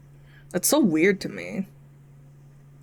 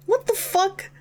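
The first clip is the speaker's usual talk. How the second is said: raging gamer; 13 semitones higher than usual. Real, not acted. Reacting to surprise visitor.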